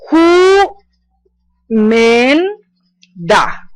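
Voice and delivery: wǒmen de, sílaba por sílaba; slow repeated word. Shown as a demonstration. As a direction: split who men da into three slow syllables. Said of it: "vuelvo y repito la palabra".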